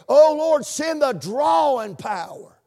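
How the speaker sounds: imitating a churchgoer's impassioned plea; fervent prayer. Preacher recalling Miss Stapleton's prayer, fervently pleading. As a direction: cry it out like a heartfelt prayer. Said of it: "She would pray that prayer request".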